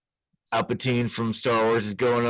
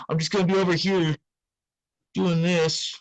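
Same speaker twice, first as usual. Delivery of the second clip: higher, fast mock-sweet clerk; suspicious clerk; 5 semitones higher than usual. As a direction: cheerfully announce you'll watch them.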